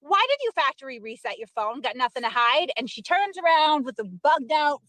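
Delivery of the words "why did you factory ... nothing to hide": retold challenge at usual pitch and volume; retold confrontation. Confronting Karen in the hallway, retold first challenge. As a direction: put the question to her, contained. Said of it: "I'm like, "Hey, Karen".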